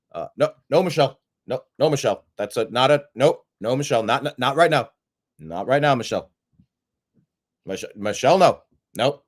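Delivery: repeated nos to Michelle, a touch insistent; mock scolding. Pretend figure brushing off Michelle, mildly insistent. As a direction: lightly hush her off with nope after nope.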